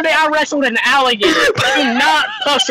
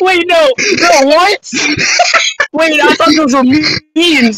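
shocked disbelief; 3 semitones higher, 4 dB louder, slower than usual. Real, not acted. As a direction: blurt it out in real disbelief. Reacts in disbelief to beans remark.

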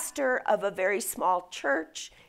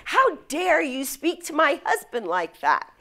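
retold indignant protest, higher pitched; upset wife; 4 semitones higher, 4 dB louder than usual. Famous speaker's wife defending him at the table, mildly indignant. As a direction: act out an offended wife's rebuke. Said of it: "wife was very upset".

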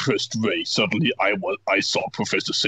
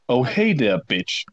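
emo voice. Acted. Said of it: "said in an emo voice".

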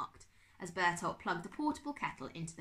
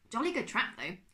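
put-on gruff old gentleman; 6 semitones higher, 5 dB louder than usual. Uncle Max voiced.

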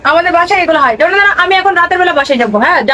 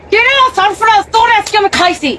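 mock scolding mother; 5 semitones higher than usual. Wife yelling at son.

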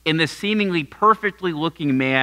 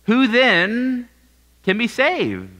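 astonished; 5 semitones higher, slower than usual. Retold or imitated. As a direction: ask it stunned, reaching up. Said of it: "look at him in astonishment".

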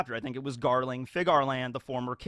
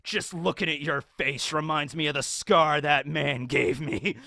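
slow, solemn menace; slow serious judge; grave. Acted. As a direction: deliver it dead serious. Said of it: "looks at him super seriously".

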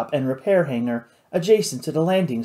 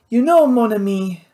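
raised, louder, seething Cajun pirate; 7 semitones higher, 5 dB louder than usual. A narrator's reading. Louis rounding on his friend Nathan, seething. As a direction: let the anger press through, higher and louder. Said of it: "Louis seethed".

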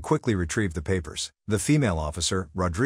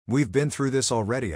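through gritted teeth; 5 semitones higher than usual. Acted. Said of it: "I said through gritted teeth".

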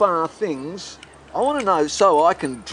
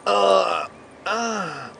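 drawn-out fake groan of effort; mock straining groan; 2 semitones higher than usual. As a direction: groan as if it takes great effort, hammed-up. Pretending the drop was hard.

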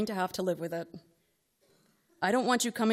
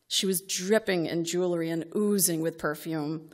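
normal talking voice

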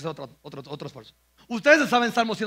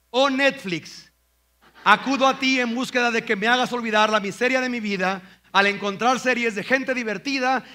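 hammed-up melodrama; mock plea to Netflix; 3 semitones higher, 5 dB louder than usual. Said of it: "¿qué tal esta?". (súplica melodramática a Netflix, lenta y fuerte)

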